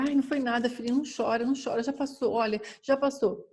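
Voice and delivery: mock mother hushing a crying child; soothing mother. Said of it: "Aí a mãe fala".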